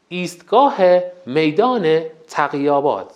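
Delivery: a light imitation of a station announcer, each ایستگاه rising, slow and spaced; metro station announcer. Teacher imitating metro station announcements for the class, lightly announcer-like. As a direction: call out the stops like the metro speaker.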